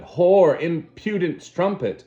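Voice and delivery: furious shout. Acted. Savage raging at Lenina, furious shout. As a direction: spit the insult in fury.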